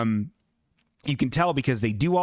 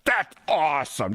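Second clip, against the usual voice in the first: dry deadpan Daria impression; a lightly voiced bored sarcastic Daria; flat monotone mock enthusiasm. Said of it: "say that in Daria's voice".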